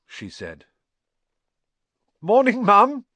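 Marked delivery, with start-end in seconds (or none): 2.2-3.1 high, loud, breezy and innocent; jaunty, winning voice. A narrator's reading. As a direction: charm her with forced cheer. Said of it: "jaunty, winning voice".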